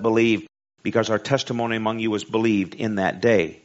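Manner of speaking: preacher's measured, ringing scripture delivery; scripture reading. A narrator's reading. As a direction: read the verse out strongly, leaning on key words.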